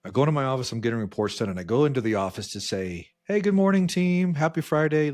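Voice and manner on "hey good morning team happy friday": higher, louder good-morning call; rally the team with a morning hello; imitated upbeat boss greeting; cheery team greeting.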